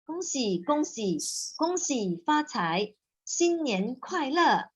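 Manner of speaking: cheerful New Year wish, sung out high. Shown as a demonstration. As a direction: sound bright and celebratory, drawn out. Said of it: "should be more cheerful lagi".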